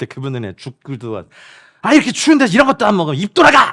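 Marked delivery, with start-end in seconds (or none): 1.8-3.7 fast, loud, high shouting. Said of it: "막 이러면서 막 소리치면서".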